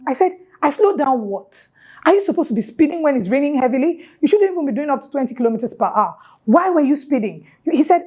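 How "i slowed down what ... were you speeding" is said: raised, fast, indignant questions; indignant retort. Retold or imitated. To the driver who hit her, heated and fast. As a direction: fire back at him, pitch up and speeding. Retold angry argument with driver.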